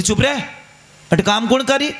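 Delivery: mildly indignant telling-off; mock scolding. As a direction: play a scolding mother-in-law, listing the chores. Mother-in-law scolds the daughter-in-law.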